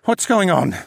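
high, loud cracked question; bewildered engineer, voice breaking high; voice cracking. A narrator's reading. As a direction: let the voice crack upward in alarm. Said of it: "and his voice cracked".

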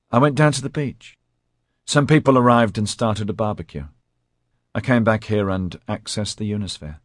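high, lightly voiced nervous man; nervous male voice. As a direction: voice him high and fretful. Dudley voiced by narrator.

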